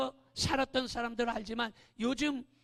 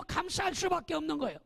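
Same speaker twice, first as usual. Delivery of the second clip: usual speaking voice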